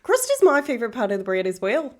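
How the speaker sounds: put-on Australian, lifted in pitch; chatty hammed-up Australian accent. Streamer bantering and thanking gifters in an Australian accent. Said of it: "y'all get an Australian version of her".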